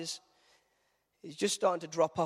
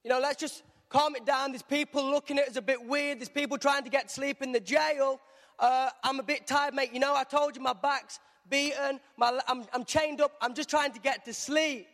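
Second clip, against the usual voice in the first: grumpy Silas hushing Paul; annoyed Silas; 8 semitones higher than usual. Retold or imitated. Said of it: "he's going".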